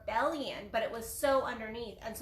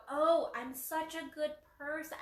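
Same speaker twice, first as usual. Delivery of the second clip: smug self-praise; 3 semitones higher than usual. Retold or imitated. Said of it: "the more you go".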